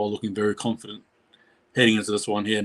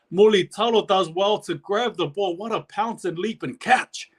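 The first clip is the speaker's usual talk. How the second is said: higher and slower, thrilled by the catch; excited commentary; 8 semitones higher, slower than usual. Real, not acted. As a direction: call the leap with real delight, stretching the words. Commentator reacts to great catch.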